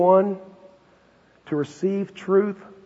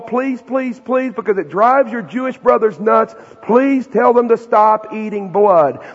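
pleading; 4 semitones higher, 4 dB louder, slower than usual. Acted. Elders pleading with Paul.

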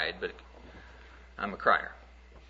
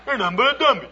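put-on taunting little boy; 10 semitones higher than usual. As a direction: jeer like a bratty boy on the playground. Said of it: "little boy fighting with a little girl".

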